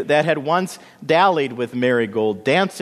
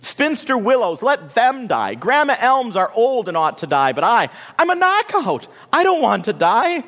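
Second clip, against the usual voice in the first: high, loud, vain tantrum; shrieking; 12 semitones higher, 6 dB louder than usual. A narrator's reading. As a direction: shriek frantically, outraged at your fate. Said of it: "could shriek louder than anyone".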